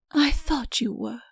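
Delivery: soft, slow sigh; a quiet sighing reply. A narrator's reading. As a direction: breathe it out on a sigh. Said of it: "she sighed".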